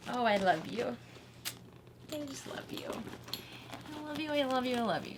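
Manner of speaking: soft, tender cooing. Real, not acted. Crafter doting on the finished bag, cooing softly. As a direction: murmur it lovingly, half to yourself.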